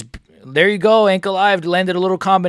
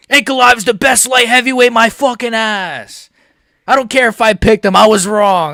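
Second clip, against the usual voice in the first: gloating rant; 4 semitones higher, 3 dB louder than usual. Real, not acted. Gloating continues.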